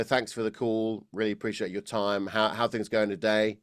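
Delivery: harsh throat-driven sound; speaking from the throat. Shown as a demonstration. Coach demonstrating a harsh sound from the throat, throaty. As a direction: push it all from the throat. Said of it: "speak completely from the throat now".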